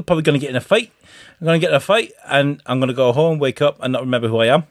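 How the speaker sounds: badly butchered Geordie impression; mock Geordie accent. Host shows Americans how Newcastle people talk, in mock Geordie. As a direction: put on a rambling, rough-and-ready Geordie accent. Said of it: "they talk like this".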